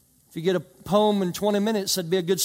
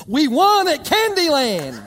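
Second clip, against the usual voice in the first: higher, louder, slow mock gloat; 8 semitones higher, 7 dB louder, slower than usual. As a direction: rub the win in, laughing. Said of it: "come up and say".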